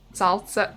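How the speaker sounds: Salsa with an added t, "SAHL-tsa"; Boston pronunciation. Shown as a demonstration. Streamer attempting Boston seltzer as Salsa, "SAHL-tsa". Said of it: "I can't do it".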